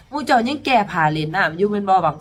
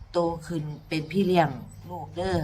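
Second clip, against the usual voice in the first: gentle teacher; 3 semitones lower, 6 dB quieter than usual. Retold or imitated. Teacher gently lets mother go on stage. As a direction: reassure kindly, trailing off.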